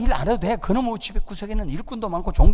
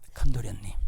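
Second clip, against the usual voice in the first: softer second call; 10 semitones lower, 6 dB quieter than usual. Acted. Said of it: "종이 쪼르륵 달려가서".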